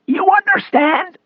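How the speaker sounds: slow, high rasping question, rising; mock the agent's question in a strained rasp; defiant rasp. A narrator's reading. Disabled man parroting bullying agent, defiant rasp. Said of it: "doing his best to stand up to him".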